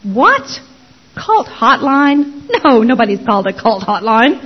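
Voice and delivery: lightly voiced puzzled husband; husband on phone. Husband answering the cult hotline callback, mock puzzlement. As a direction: retell his baffled questions, drawing out some words. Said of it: "I hear my husband go".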